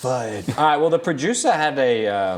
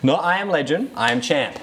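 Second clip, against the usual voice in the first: playing Champ; 3 semitones higher than usual. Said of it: "we're doing a role play. I am champ".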